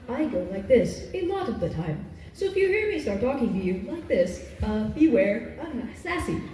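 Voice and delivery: flat robotic sarcasm; deadpan like a sarcastic AI; monotone robot voice. Shown as a demonstration. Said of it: "I like to pull out a very monotone voice".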